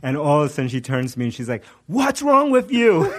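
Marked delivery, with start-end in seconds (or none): 1.9-3.1 very high, drawn-out mock reproach; scolding wife. Wife turns on laughing husband after his story, mock scolding. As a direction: imitate an appalled wife in a high, slow voice.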